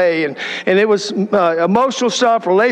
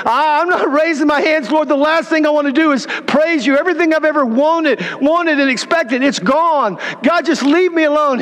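higher, pleading protest full of hurt; anguished refusal; 6 semitones higher than usual. Retold or imitated. Broken Scott refusing God, pleading and higher.

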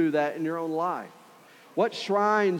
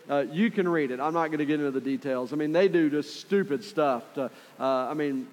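usual speaking voice

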